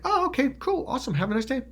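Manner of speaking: high, breezy, friendly sign-off; mock-casual pleasantry. Imitating a gaslighter after scaring someone, breezy. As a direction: chirp it as if nothing happened. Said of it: "they scare you".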